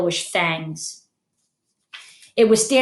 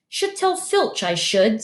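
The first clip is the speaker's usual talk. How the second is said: saintly voice; 2 semitones higher, slower than usual. Acted. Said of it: "in a saintly voice".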